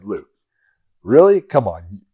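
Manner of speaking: teasing Luke; playful nudge. Shown as a demonstration. Tweeting Luke, teasing him about Liver King. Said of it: "I was saying it like that".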